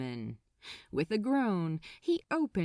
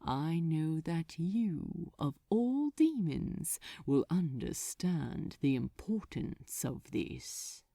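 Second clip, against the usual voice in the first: silky persuasion; 2 semitones lower, 3 dB quieter than usual. Acted. Smooth persuasion by the demon.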